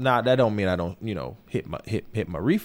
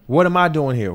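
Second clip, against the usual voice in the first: puzzled question to God, a little louder; bewildered plea to God; 4 dB louder than usual. Retold or imitated. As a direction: ask heaven what you're doing there. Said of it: "looking at God like".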